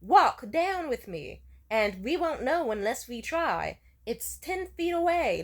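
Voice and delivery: slow, emphatic, spelled-out pleading; insistent repeating. Retold or imitated. Repeating instructions to the panicking date, slowly insistent. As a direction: drag it out as if repeated many times. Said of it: "eighteen fucking times of me repeating".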